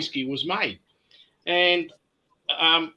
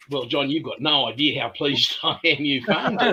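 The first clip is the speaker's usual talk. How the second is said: laughing. Retold or imitated. Retold reply, laughing mid-line.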